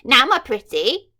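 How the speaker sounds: loud, creepy villain purring; mock purr. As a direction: lean in with false sweetness. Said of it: "she purred".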